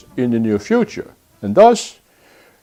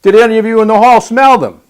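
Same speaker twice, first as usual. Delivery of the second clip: Donald Trump impression; 2 semitones higher than usual. Host mimics a candidate addressing the United Nations, blustering. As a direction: work the crowd like a boastful politician. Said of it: "I'm gonna go to my Donald Trump impression".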